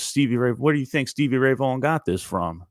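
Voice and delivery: put-on a touch of an irritated old bluesman; old man snapping back. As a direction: bristle at the heckler, put her in her place. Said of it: "this old man all of a sudden goes".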